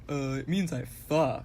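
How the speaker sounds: laughing through the punchline; cracking up mid-answer. Retold or imitated. Blunt joke answer, laughing.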